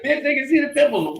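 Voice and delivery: high-pitched teenage protest, retold; mock indignant retort. Thirteen-year-old back-talking his sister, high indignant voice.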